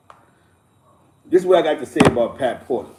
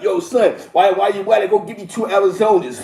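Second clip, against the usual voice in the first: mock complaint; 4 semitones higher, 4 dB louder than usual. Imitating the errand complaint.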